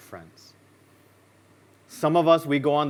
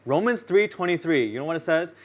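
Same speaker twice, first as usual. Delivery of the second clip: ordinary talk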